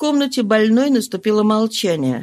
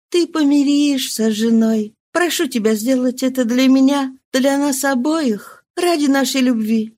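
higher, gently pleading woman; tender insistence; 4 semitones higher than usual. Acted. Mistress tenderly urges him to reconcile, higher. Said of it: "нежно продолжала настаивать".

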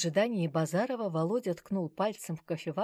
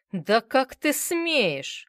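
slow, loud, higher indignant yell; outraged yell; 7 semitones higher, 8 dB louder, much slower than usual. A narrator's reading. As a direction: roar at her in outrage. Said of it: "заорал Базаров". (медленный возмущённый крик)

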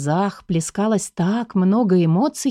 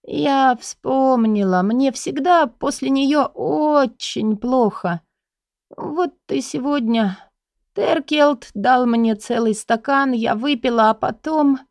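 higher, very slow, put-on feebleness; feigned dying voice; 5 semitones higher, slower than usual. Heroine fakes illness for her guardian, slow dying voice. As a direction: play the invalid, barely pushing the words out. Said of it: "произнесла умирающим голосом".

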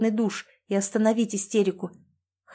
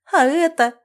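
a sob, high and loud; sobbing cry; 7 semitones higher, 8 dB louder than usual. A narrator's reading. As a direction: burst out through tears. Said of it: "всхлипывает и кусает губы". (всхлип сквозь слёзы)

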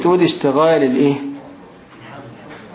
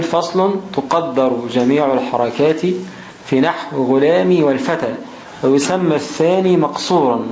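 slow, measured recitation of a grammar text; reading the text aloud; 2 semitones lower than usual. Shown as a demonstration. Teacher reading the grammar rule to students, slow recitation. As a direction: read the rule out carefully for the class.

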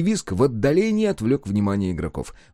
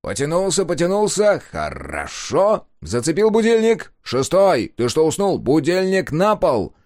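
louder, higher peppy loudspeaker coach; cheery announcer; 7 semitones higher, 4 dB louder than usual. Acted. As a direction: bark morning drills like a radio announcer. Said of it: "бодрый, как из репродуктора".

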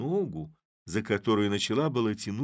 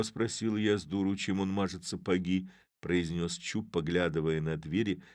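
ordinary delivery, nothing marked

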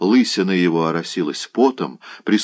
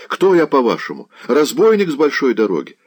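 higher-pitched alarmed lad; frightened protest; 6 semitones higher than usual. A narrator's reading. Scared lad protesting to his attacker, higher and alarmed. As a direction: protest as if wrongly accused, voice up. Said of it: "закричал перепуганный парнишка".

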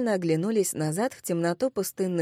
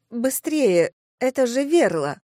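higher, louder urging; urgent alarm; 4 semitones higher, 5 dB louder than usual. Acted. Redhead warns friends about sleep water, alarmed. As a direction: hurry them on in alarm.

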